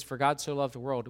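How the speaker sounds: For God so loved the world, with God leaned on; stress on God. Shown as a demonstration. Pastor teaching the verse, God stressed. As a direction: lean into the word God. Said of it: "When he says".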